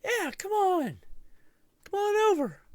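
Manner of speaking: high, loud call across to a neighbour window; calling the guy over from the balcony, high and loud. Retold or imitated. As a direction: wave him over, shouting up high.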